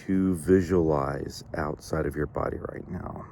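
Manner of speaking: unhurried visualization with long pauses; measured meditation leader, leaving space between thoughts; guided meditation. Real, not acted. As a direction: guide listeners gently inward, phrase by phrase.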